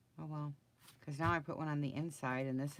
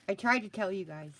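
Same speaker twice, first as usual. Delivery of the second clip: exasperated outburst; 6 semitones higher, 9 dB louder than usual. Real, not acted. Laughing at own crafting failure.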